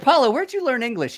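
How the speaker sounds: high-pitched incredulous question; mock bafflement. Shipmate puzzled by Paulo's English, high mock bafflement. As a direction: ask in exaggerated disbelief.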